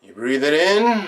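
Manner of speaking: full-voiced inhale cue, stretched "in"; breathing-in cue. Meditation leader cueing listeners to inhale, stretched and full. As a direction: draw out "in" as the breath fills.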